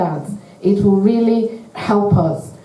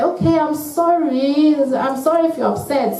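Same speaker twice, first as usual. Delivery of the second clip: quick, offhand higher-pitched apology; a dismissive non-apology, higher and rushed; half-hearted sorry; 6 semitones higher than usual. Retold or imitated. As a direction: toss off a careless sorry, as if to end it. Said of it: "Some of us say".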